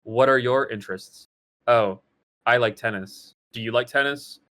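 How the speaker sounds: awkward lovers comparing hobbies, deadpan; deadpan dialogue. Shown as a demonstration. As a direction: trade the lines like stiff robots. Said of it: "The dialogue is so weird".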